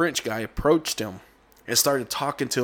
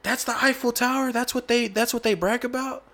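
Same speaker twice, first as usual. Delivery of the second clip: higher, lightly voiced nephew explaining; retold landmark explanation; 11 semitones higher than usual. Nephew explaining the Eiffel Tower to his uncle, higher mock voice. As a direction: pitch up and lay it out like the obvious tourist fact. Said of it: "he says".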